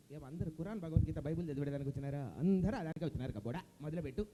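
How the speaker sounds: low sarcastic radio boss; grumble, then order him on; Jayaprakash Reddy impression. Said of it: "Jayaprakash Reddy గారు".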